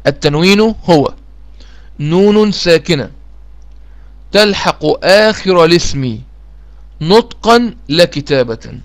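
slow, measured definition for students to copy; slow dictation. Shown as a demonstration. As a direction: dictate it slowly word by word. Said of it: "تاني".

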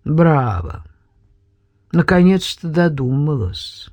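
dry mocking. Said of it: "раздался сухой голос".

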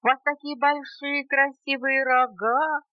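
high, tiny bug voice; piping, squeaky request; squeaking little beetle. A narrator's reading. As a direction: squeak it up high like a small insect. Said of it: "опять пропищал жучок".

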